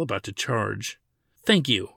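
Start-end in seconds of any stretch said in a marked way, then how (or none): 1.4-1.9 sharp thanks. Acted. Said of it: "Ladin said sharply".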